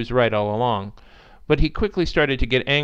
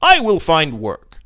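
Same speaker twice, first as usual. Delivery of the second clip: fake stoicism; 3 semitones higher, 7 dB louder, slower than usual. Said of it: "though it was stoic but utterly fake".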